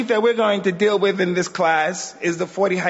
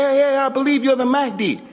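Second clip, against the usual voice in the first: mock eager opportunist; 6 semitones higher than usual. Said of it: "look at that sister and say".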